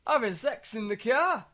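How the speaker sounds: lightly voiced stunned father; mock dad voice. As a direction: drag it out like a shocked dad. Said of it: "he just kept saying".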